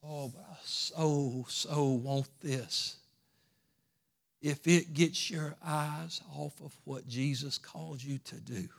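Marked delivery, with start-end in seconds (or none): 0.0-3.0 mock longing. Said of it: "tell yourself no".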